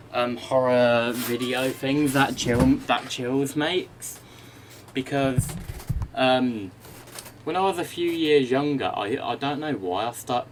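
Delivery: breathless after the stairs; out of breath. Real, not acted. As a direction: talk while catching your breath. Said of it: "I'm out of breath now".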